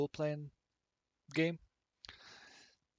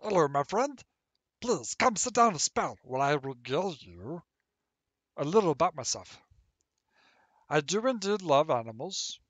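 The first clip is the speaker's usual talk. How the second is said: hobbit storyteller greeting his guest, a bit higher and louder; a friendly old hobbit welcoming a friend to sit and listen; Leander voice; 3 semitones higher, 5 dB louder than usual. Acted. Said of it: "So I'm gonna do it in my Leander voice".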